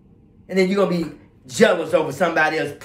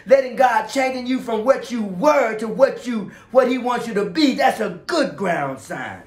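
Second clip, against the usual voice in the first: fervent preaching; 7 semitones higher, 4 dB louder than usual. Real, not acted. Preacher telling what a good sign is, fervent preaching. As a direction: proclaim it with rising fervor.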